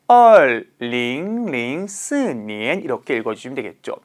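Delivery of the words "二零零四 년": 二零零四 read slowly one digit at a time with clear Chinese tones. Shown as a demonstration. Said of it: "어떻게 하시면 돼요".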